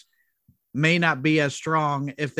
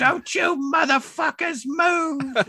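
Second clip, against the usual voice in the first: high, slow screaming robber; Honey Bunny impression; 13 semitones higher, 3 dB louder, much slower than usual. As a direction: shriek it slowly like a crazed robber. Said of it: "That is a spot on impression".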